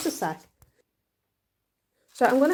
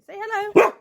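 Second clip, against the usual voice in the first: coaxing the dog; 11 semitones higher, 11 dB louder than usual. Real, not acted. Urging the dog to bark hello.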